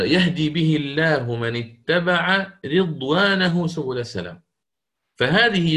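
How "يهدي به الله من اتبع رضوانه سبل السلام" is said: تلاوة مرتلة بطيئة; رتّل الآية بتأنٍّ كقارئ; ترتيل. Shown as a demonstration. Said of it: "في قوله تعالى". (ترتيل هادئ بطيء للآية)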